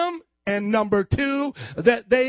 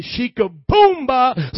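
loud, slow, booming exclamation; booming catchphrase; 9 dB louder, much slower than usual. Shown as a demonstration. Preacher showing the congregation his own catchphrase, booming shout. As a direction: shout it out, drawn out. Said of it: "This is how I say".

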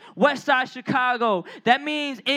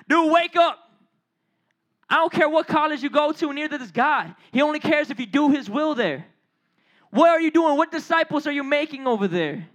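raised, challenging wake-up call; forceful preaching; 2 semitones higher than usual. Real, not acted. Preacher confronting oblivious believers about college, forceful. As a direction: jolt them awake, then press the question.

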